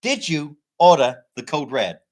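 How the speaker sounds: mock courtroom cross-examination in American accent. Shown as a demonstration. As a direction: play a film lawyer in an American accent. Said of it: "do the accent".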